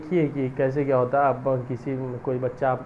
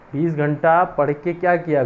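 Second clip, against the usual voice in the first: louder scornful repeat; 3 semitones higher, 5 dB louder than usual. Acted. Scolding lazy aspirants.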